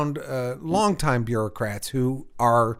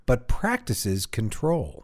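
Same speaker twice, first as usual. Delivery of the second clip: cliffhanger; 2 semitones lower, 5 dB quieter, slower than usual. Pretend. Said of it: "kind of cliffhanger button on that".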